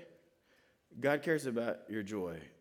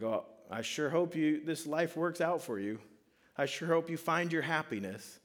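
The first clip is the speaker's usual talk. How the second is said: higher, breezy hands-off good wishes; lightly acted detached well-wishing; mock distant well-wisher; 4 semitones higher than usual. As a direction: wish them luck from afar, uninvolved. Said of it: "doesn't just care about your joy from a distance".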